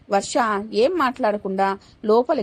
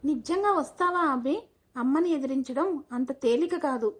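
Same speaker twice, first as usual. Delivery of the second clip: soft, unsure question; hushed worried doubt; hesitant doubt; 2 semitones higher, 5 dB quieter than usual. Acted. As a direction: ask quietly, afraid to believe it. Doubtful girl asks boyfriend for assurance.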